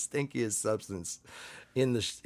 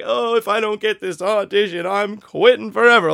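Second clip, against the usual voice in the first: higher, louder all-or-nothing wail; imitating an actor who says he'll quit forever, higher and louder; mock desperate actor; 8 semitones higher, 7 dB louder than usual. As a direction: ham up the actor who bets everything on one audition.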